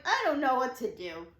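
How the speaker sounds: helpless outburst, retold; retold freak-out. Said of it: "I'm, like, freaking out".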